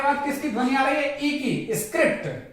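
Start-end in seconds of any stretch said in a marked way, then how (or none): 1.7-2.5 स्क्रिप्ट with the R sounded after K; R pronounced. Shown as a demonstration. Teacher demonstrates R before a vowel, sounded in स्क्रिप्ट. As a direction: say स्क्रिप्ट with a clear R. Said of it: "यहाँ पे भी आर बोला जाएगा".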